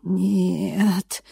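drawn-out, pleading "Нет"; жалобно протянутое нет; plaintive drawn-out no. A narrator's reading. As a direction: stretch the word out, plaintive. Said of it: "жалобно протянул Влади".

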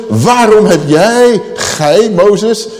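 high, loud, drawn-out acted accusation; grumbling accusation. Thirsty people blaming Moses, grumbling accusation. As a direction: jab each address at Moses. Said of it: "het moppert tegen Mozes".

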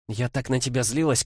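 brisk lawyerly princess voice, lightly voiced; quick, eager legal rattle; young woman voice. Kimbodzha vents old anger.

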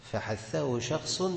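stretched, measured recital; slow recitation. Shown as a demonstration. Teacher slowly reciting the mnemonic to the class. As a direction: draw out each word for students. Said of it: "teacher recites mnemonic".

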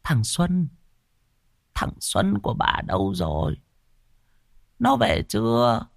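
put-on high, frantic old woman's voice; frightened grandmother asking for her grandson; panicked grandmother. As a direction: ask in sudden alarm. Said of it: "bèn hốt hoảng".

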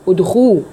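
ادخو said with the lips fully rounded on the u. Shown as a demonstration. Teacher shows her students how to round the lips. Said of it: "ضمي شفايفك كويس".

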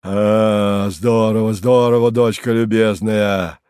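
loud, mocking thunder; booming greeting. A narrator's reading. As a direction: boom a sarcastic welcome. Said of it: "загремел сверху Харлов".

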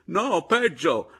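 loud, high, drawn-out cry; alarmed outburst. A narrator's reading. Berto breaks worse news, alarmed. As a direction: blurt it slowly at high pitch.

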